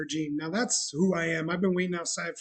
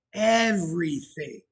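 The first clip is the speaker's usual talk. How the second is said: "everything" drawn out slowly, falling at the end; emphatic stress; slower than usual. Real, not acted. Telling how much she gave us, emphatic stress on "everything". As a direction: stretch "everything" with a strong first syllable.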